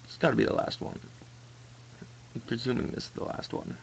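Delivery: soft whispered mutter; whispering. Real, not acted. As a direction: whisper to yourself. Quiet muttering while playing.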